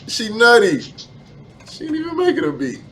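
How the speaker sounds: high, loud words through laughter; can barely get it out for laughing; cracking up while mocking her. Real, not acted. Laughing at the ranting woman.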